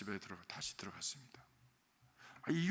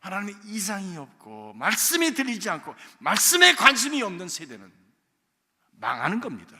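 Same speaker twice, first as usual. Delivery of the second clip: forceful sermon warning, louder; preaching loud; 9 dB louder than usual. Acted. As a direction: drive the warning home at full voice. (힘차게 외치는 설교)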